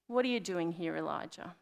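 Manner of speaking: low-key, tender question; gentle question. Retold or imitated. Preacher voicing God's question to Elijah, gently. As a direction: ask it softly and knowingly, letting it fall away. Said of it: "he lovingly says to Elijah".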